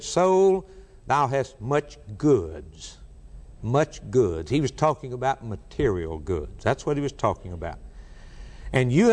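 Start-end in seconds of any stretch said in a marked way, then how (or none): 0.0-3.0 self-satisfied rich man. Acted. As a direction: gloat over possessions. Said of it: "He said".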